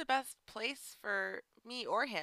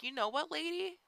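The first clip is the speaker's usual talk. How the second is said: 한국어: 화난 듯 따지는 말투; angry retort; 7 semitones higher than usual. Retold or imitated. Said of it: "And I got so upset".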